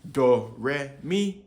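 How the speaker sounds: "Do, re, mi" climbing, with "mi" clearly highest; three tones. Shown as a demonstration. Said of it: "Those are the three intonations".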